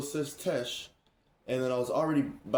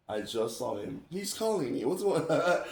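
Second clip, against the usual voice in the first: imitated puzzled friend, pitch climbing; imitating friend on phone; 4 semitones higher than usual. Friend answering an unexpected call, imitated puzzlement. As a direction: mimic a friend wondering about the call, rising higher. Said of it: "you could tell her voice was like".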